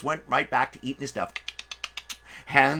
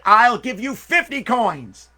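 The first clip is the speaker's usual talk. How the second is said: eager bid; 7 semitones higher, 7 dB louder, slower than usual. Acted. Crowd bidding for the bird.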